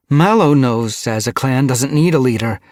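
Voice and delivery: loud, high, heated rebuttal; arguing. A narrator's reading. Mothwing disputes Gorseclaw on needing a leader, arguing. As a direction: argue back forcefully. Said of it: "Mothwing argued".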